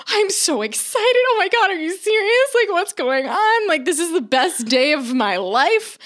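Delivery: high, gushing mock tearful excitement; hysterically excited. Mother-in-law believing she'll be a grandma, mock-hysterical excitement. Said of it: "she calls hysterically crying, so excited".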